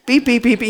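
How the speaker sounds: quick string of mimicked beeps; imitated bleeped swearing. Mimicking classmate's swearing to congregation, quick beeping. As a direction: beep like a censored curser. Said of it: "so he would just go beep".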